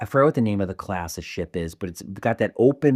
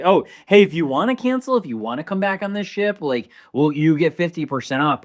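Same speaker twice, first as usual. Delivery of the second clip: lightly imitated customer-service voice, higher; mock company pitch; 7 semitones higher, 3 dB louder than usual. Host imitating the cruise line's offer to cancelled passengers, mock-helpful.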